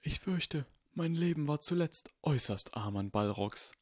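put-on old wizard, hushed and grave; voiced old Dumbledore. Dumbledore warning Harry, hushed old wizard voice. Dumbledore sighs about his life.

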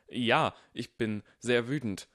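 slow, hammed-up mock fury; badly faked anger. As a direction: act angry, very unconvincingly. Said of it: "schlechteste Schauspielleistung".

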